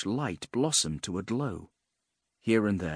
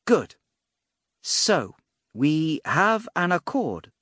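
high, drawn-out mage's proclamation; mage declaring agreement; 6 semitones higher, 4 dB louder, slower than usual. A narrator's reading. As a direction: announce it grandly, pitched up and slow. Mage announces the pact.

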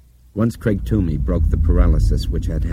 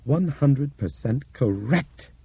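very slow, measured; slow and deliberate; 7 semitones higher, much slower than usual. Acted. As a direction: spell it out word by word. Bob confirming slowly.

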